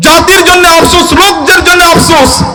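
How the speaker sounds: impassioned, mournful lamenting tone.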